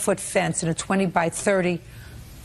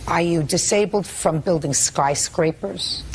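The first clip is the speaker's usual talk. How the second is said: sarcastic; slower than usual. Real, not acted. Judge mocks disabled claim.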